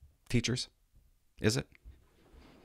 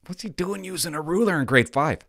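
teacher voice; 5 semitones higher, 4 dB louder than usual. Retold or imitated. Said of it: "the teacher says to him".

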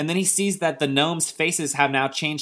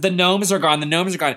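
lightly acted alarm, raised and louder; alarmed kid; 5 semitones higher, 4 dB louder than usual. Joe wakes mom and dad, mock-alarmed cry. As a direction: wake the parents with urgent news.

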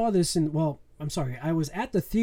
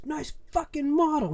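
kid imitating the movie line; 11 semitones higher than usual. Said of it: "He goes".

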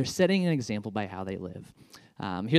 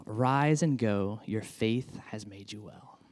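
tender blessing; 3 semitones lower, 5 dB quieter, slower than usual. Acted. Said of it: "he said to him".

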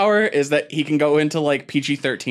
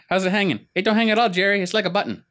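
higher, hammed-up joking dude; mock greeting voice; 8 semitones higher than usual. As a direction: deliver the gag like a wisecracking guy. Joke punchline in voice.

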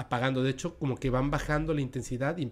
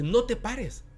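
sharp, high cry to not stop; wife yelling; 9 semitones higher, 3 dB louder, much slower than usual. Retold or imitated. Wife yelling at her husband not to stop the car, high alarmed cry. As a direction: yell it at the driver in alarm. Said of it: "Le, le grita".

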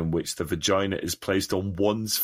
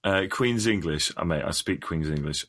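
put-on posh English accent; 6 semitones lower, 3 dB quieter than usual. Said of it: "I sounded more like fucking Harry Potter".

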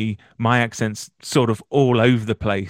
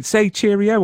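American asking; 9 semitones higher than usual. Retold or imitated. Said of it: "the Americans say".

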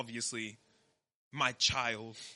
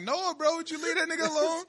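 retold pleading. Acted pleading in retold quarrel.

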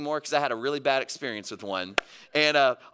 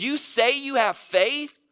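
high-pitched, pointed challenge; lightly sarcastic scripture quote; a little sarcastic; 4 semitones higher, 4 dB louder than usual. Acted. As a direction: voice James calling them out, pitched up. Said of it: "he gets a little sarcastic".

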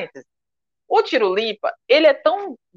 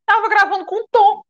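retold despair; 12 semitones higher, 4 dB louder than usual. Comedian overwhelmed at recording with Tom, retold despair. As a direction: voice pitched high in mock panic. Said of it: "me deu um desespero mesmo".

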